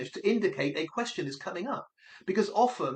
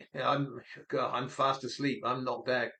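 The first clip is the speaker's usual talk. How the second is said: groggy sleeper; 5 semitones lower than usual. Pretend. Man woken in the car answers the phone, groggy. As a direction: imitate someone half asleep, pitch dropped. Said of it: "Stephen Fortes Rocas is like".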